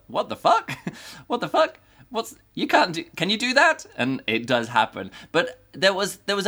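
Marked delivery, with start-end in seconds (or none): 0.1-3.8 high, laughing disbelief; escalating giggly what-the-fuck; incredulous. Retold or imitated. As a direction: squeal it out, laughing at the nerve of it. Reader's incredulous reaction to plot.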